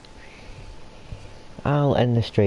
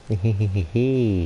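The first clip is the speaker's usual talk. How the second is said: cartoon laugh. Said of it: "And other such noises".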